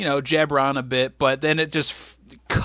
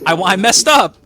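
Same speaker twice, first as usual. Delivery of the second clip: blurted confession; 3 semitones higher, 8 dB louder than usual. Pretend. Repeats his confession, blurted louder.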